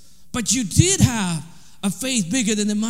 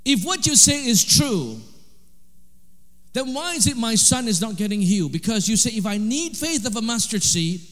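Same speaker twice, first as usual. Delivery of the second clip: retold pleading prayer; 4 semitones higher than usual. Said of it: "And then he said".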